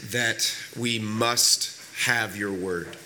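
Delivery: deliberate prayer with pauses between phrases; public prayer. Acted. Pastor leads the congregation in prayer before preaching, deliberate public prayer.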